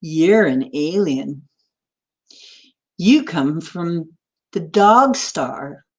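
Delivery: slow, deliberate cat reveal; joke's cat. Acted. Cat telling the dog where it comes from, slow and deliberate. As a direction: draw out the big news word by word. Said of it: "the cat says".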